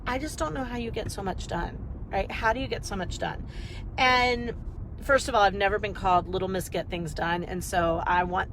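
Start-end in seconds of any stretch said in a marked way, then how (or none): 0.1-3.4 wondering clients. Retold or imitated. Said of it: "they're like".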